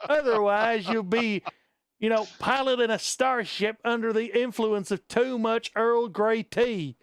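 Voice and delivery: hammed-up Southern old-timer storyteller; stereotype Southern accent. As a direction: spin a yarn in mock Southern. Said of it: "ridiculous stereotype Southern accent there".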